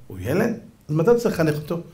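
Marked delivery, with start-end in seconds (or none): 0.1-0.6 "הוא ילד" with a rising disbelieving tune; softer, mocking "הוא ילד?" as a question; incredulous question. Real, not acted. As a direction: throw the excuse back in disbelief. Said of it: "rabbi questions the excuse".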